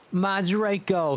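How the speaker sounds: high, slow, drawn-out moan. A narrator's reading. Vampire mourning his captured friend, moaning high and slow. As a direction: wail his name in grief. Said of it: "he moaned".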